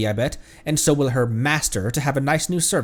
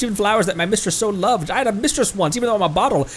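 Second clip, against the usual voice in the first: high character voice; 7 semitones higher than usual. Acted. Voices Paimon and lamp.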